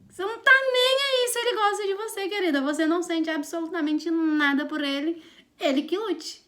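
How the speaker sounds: high, exasperated mock telling-off; mock blunt outburst. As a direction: blurt out the harsh truth, pitched high. Acted blunt truth behind polite rejection. (desabafo debochado, em voz aguda)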